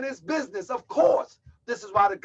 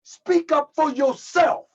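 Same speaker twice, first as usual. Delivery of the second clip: exhorting shout; 4 semitones higher, 5 dB louder, slower than usual. Real, not acted. Preacher exhorting the congregation.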